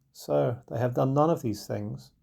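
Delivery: solemn. Acted. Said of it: "she answered solemnly".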